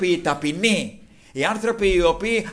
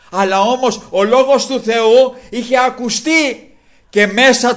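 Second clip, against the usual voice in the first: raised, higher preaching voice; forceful preaching; 5 semitones higher, 6 dB louder than usual. Real, not acted. Preacher telling the congregation of the blind beggar, forceful preaching.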